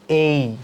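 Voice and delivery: A as a long glide, "এই"; correct English A. Shown as a demonstration. Teacher showing students the correct letter A, long gliding "এই". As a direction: draw "এই" out from e into a clear i. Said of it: "এর উচ্চারণ করতে হবে".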